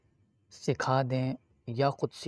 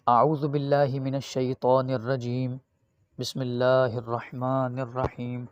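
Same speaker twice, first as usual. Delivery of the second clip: Quranic recitation; slower than usual. Shown as a demonstration. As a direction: recite it slowly and clearly for pupils to repeat. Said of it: "آج میں آپ کو پڑھ کے بتاتا ہوں اس طرح آپ نے پڑھنا ہے".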